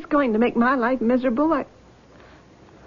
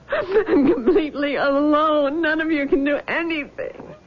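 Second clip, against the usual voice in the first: distressed crying. Acted. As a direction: cry the words out in despair. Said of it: "darling, you're distressed".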